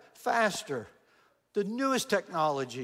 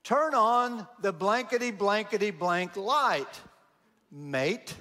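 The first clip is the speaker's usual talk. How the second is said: Australian yell; slower than usual. Retold or imitated. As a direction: bellow it like an angry Aussie in a dark toilet. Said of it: "somebody yell".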